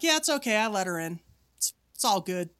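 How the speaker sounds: nonchalant. Retold or imitated. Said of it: "very nonchalantly".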